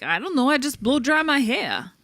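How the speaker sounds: mild Queens lilt on the bartender's line; Queens accent impression. Quoting the bartender in a faint Queens accent. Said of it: "that was my impression right there".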